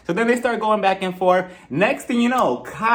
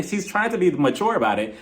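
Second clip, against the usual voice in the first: ordinary talk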